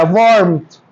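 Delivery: वार्मथ with only a faint r, waarmth; barely touch the r in वार्मथ; light r sound. Shown as a demonstration. Teacher models warmth for students, faint r. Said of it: "आर का sound आया पर कम आया".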